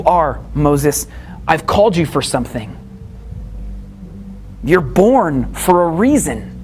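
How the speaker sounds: a lightly voiced gentle God, calming Moses; tender God voice. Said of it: "And God says".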